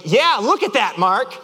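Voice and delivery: mock-exasperated agreement; irritated echo. Driver answering his too-positive friend, irritated echo. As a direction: throw the friend's words back at him. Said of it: "I'm like".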